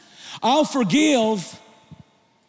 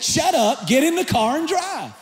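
shouted order; 4 semitones higher than usual. Retold or imitated. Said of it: "He lost his head".

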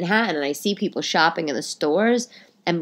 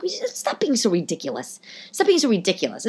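dismissive. Retold or imitated. Dismissing colleague.

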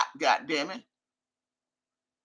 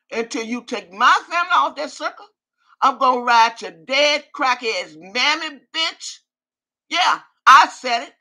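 real angry threat. Real, not acted. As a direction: lay into her, seething. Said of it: "you know I don't talk like this".

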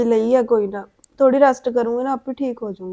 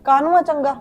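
louder, indignant snap back; louder annoyed comeback to her sister-in-law; sharp retort; 4 dB louder than usual. Acted. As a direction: bristle and push back hard. Sister-in-law bristles at the name.

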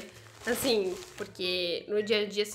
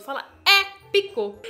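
"épico" said louder and slower with a falling end; dramatic épico; 7 semitones higher, 8 dB louder, slower than usual. Shown as a demonstration. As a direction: relish saying "épico". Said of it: "falar épico é muito gostoso".

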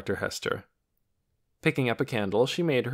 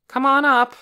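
loud, high call up the stairs; 11 dB louder than usual. A narrator's reading. Doctor calling guests up from the loft, loud. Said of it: "the doctor called".

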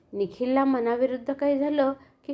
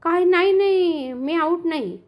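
higher, louder shocked denial; surprised protest; 4 semitones higher, 4 dB louder than usual. Acted. Boy protesting he is not out, shocked. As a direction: gasp then deny it hotly. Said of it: "Nikhil आश्चर्यचकित झाला".

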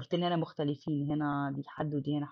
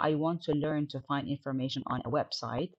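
slow reading; slower than usual. Shown as a demonstration. Teacher reading the textbook dialogue to students, slow and clear. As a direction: read "do you have a computer to do your homework" slowly and clearly. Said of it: "reads textbook dialogue aloud".

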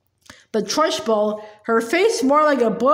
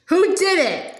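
roaring demand; 5 semitones higher, slower than usual. Acted. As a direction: bark the question at the class. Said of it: "she roared".

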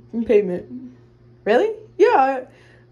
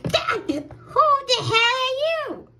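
startled; 9 semitones higher, slower than usual. Acted. Startled by stranger in house.

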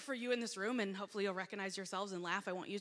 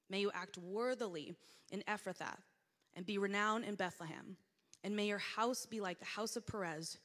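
measured, formal Bible reading; scripture reading. Acted. Preacher reading Ruth to the congregation, formal reading voice. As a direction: read the passage with steady reverence. Reads scripture passage aloud.

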